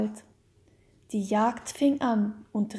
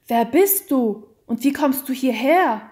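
startled call; 2 semitones higher, 7 dB louder than usual. A narrator's reading. Count startled by the stranger in the cave, calling out loudly. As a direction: call it out in alarm. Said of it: "rief der Graf, indem er bestürzt".

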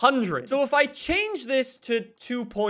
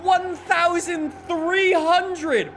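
excited; 5 semitones higher, slower than usual. Real, not acted. Speed climbing, excited count.

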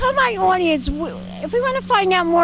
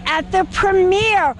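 dramatic announcement; 4 semitones higher, much slower than usual. Acted. Host hypes the film title.

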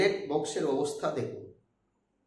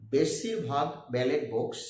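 বেশিরভাগ drawn out slowly and deliberately; slow, measured emphasis on বেশিরভাগ so it registers; stress on বেশিরভাগ; slower than usual. Real, not acted. Speaker repeats his chosen word for viewers, stressing বেশিরভাগ slowly. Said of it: "শব্দটা আমি উচ্চারণ করছি".

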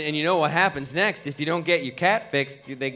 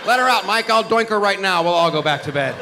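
cocky tomcat voice; 3 semitones higher, 4 dB louder than usual. Retold or imitated. Voicing neighbor tomcat.

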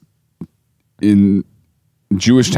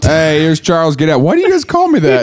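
acted cult scene; 2 semitones higher than usual. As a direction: act out the cult greeting him, then Charles asks why. Acting out cult members and Charles.

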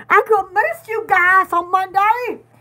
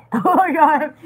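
whispered laugh; 6 dB louder than usual. Real, not acted. Laughing at herself on stream.

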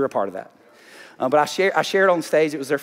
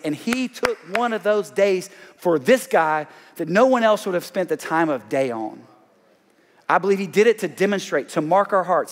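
preaching; 4 semitones higher than usual. Acted. Pastor preaching God's love to the congregation, raised and ringing. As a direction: preach it out to the whole room.

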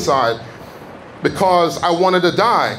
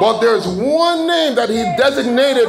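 higher-pitched, emphatic sermon delivery; fervent preaching; 4 semitones higher than usual. Real, not acted. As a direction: proclaim it to the congregation. Preaches with rising force.

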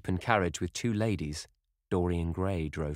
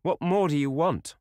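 high, loud, lilting challenge; musical cry; 11 semitones higher, 6 dB louder than usual. A narrator's reading. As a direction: lift it high like a delighted exclamation. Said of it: "she cried musically".

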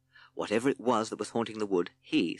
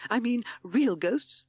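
high, slow, scared toad voice; frightened timid toad; 14 semitones higher, 3 dB louder, slower than usual. A narrator's reading. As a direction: ask it slowly and fearfully, pitched high. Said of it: "he stammered".

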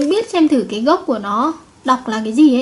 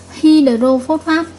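hydrophosphate drawn out slowly, each syllable clear; slow model reading; 3 semitones higher, much slower than usual. Shown as a demonstration. Teacher slowly modelling the salt name for her class. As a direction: spell hydrophosphate out slowly with your voice. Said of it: "vậy chúng ta sẽ đọc là natri".

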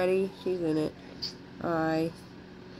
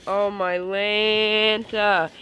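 slow amazed; much slower than usual. Real, not acted. Awe at the snake.

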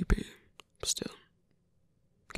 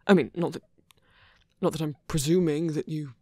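flustered; 5 dB louder than usual. Acted. Flustered rambling.

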